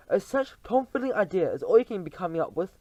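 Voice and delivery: loud, high scornful roar; thundered. Acted. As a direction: thunder your contempt. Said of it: "thundered the Grand High Witch".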